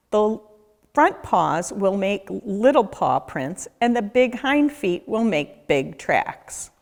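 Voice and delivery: ordinary delivery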